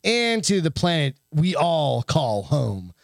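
slow, mock-solemn sarcasm; slow sarcastic read-aloud. Real, not acted. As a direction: draw it out slowly with heavy irony. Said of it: "reading this in a real sarcastic fucking voice".

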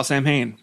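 "Sam Hain" said as SAM-hayn; pronounced as spelt. Retold or imitated. Host retelling his first reading of the word, SAM-hayn. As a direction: read "Sam Hain" just as it is written. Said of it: "I'm saying it like it looks".

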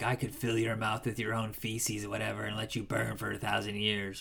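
lightly voiced devil, low and soft; understated, quiet retold threat; Lucifer. Friend retelling Satan's threat to a woman, lightly imitated menace. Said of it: "He's like".

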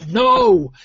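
put-on a loud, high shout of "No!" in a northern accent. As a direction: yell it like a proper northern lad. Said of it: "in a proper northern accent".

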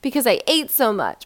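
high, loud hammed-up panic; mock the anxious dieter, shrill with dread; a hammed-up voice of an anxious dieter, pitched high and loud; panicked mock whine. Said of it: "That's what you sound like".

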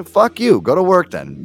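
loud, high-pitched dismissal; retold angry retort. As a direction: act out telling the ex off. Acts own quarrel with ex.

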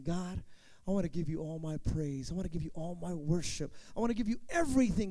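soft, low, sincere prayer to God; quiet prayer. Acted. Worshipper praying softly to God. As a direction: pray it gently, from the heart.

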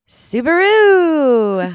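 big, drawn-out, high-pitched cheer; sponsor-bait shout. Shown as a demonstration. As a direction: belt out Subaru with a long final vowel. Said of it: "say Subaru one more time".

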